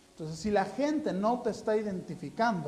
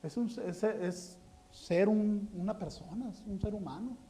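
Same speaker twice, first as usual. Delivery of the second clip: mock weary complaint; 6 dB quieter than usual. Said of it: "La semana pasada decía".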